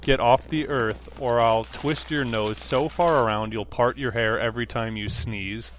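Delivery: slowed down, weighing each word; slow unpacking read. Shown as a demonstration. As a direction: reread the threat slowly, dissecting it. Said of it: "I'm gonna unpack that threat".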